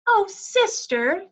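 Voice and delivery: high, slow fretting; anxious, drawn-out plea; worried plea. A narrator's reading. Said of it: "worried sister pleading".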